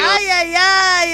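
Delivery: excited squeal. Real, not acted. Host squeals at a caller's message.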